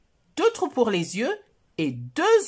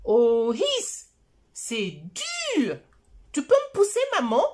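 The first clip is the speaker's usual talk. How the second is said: put-on high, whiny little boy voice; child voice; 7 semitones higher than usual. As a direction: plead like a small child. Voix de Choupi. (voix aiguë de petit garçon qui pleurniche)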